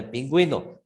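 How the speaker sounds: "pingüino" with the "ü" pronounced as "gwi"; sounded "ü" in "pingüino". Shown as a demonstration. Teacher explains diaeresis to class, "pingüino" with an audible "gwi". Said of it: "diciéndose".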